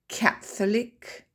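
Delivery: slow Catholic, stress on CATH. Shown as a demonstration. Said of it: "Les exceptions". (accent tonique sur CATH dans Catholic)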